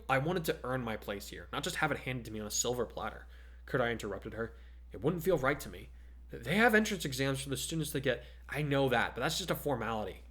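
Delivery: steady read-aloud story voice, a touch brisk; telling the story to podcast co-host, steady storytelling; story narration. A narrator's reading. Reading a story aloud to a listener, evenly paced. Reads his fan fiction aloud.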